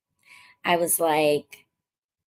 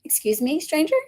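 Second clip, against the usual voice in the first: mock surprise; 8 semitones higher than usual. Reacting to him ordering for her.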